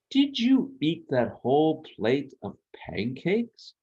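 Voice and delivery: slow, astonished father; a dad amazed at the empty plate; drawn-out, amazed question. Acted. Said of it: "asked an astonished Papa Gnome".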